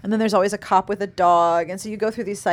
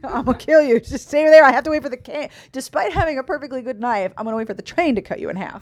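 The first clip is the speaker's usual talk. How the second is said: hammed-up cartoon villain threats; mustache twirling villain; 5 semitones higher, 4 dB louder than usual. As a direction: play it like a silent-film villain. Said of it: "I'm going to twirl my mustache at you".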